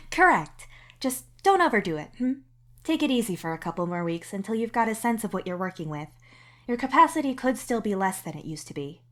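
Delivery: the doctor teasing gently, then getting practical; amused doctor. Acted. The doctor amused, cautioning the patient to take it easy. The doc voiced, laughing first.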